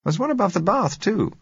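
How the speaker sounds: amused, exclaiming heroine; excited young woman. A narrator's reading. Josella finds a mirror.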